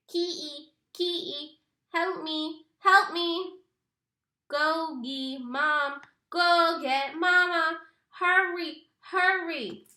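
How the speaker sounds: high, loud desperate calls for help; panicked plea. A narrator's reading. Stuck brother begs Kenny to fetch Mama, panicked. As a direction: beg for rescue in panic.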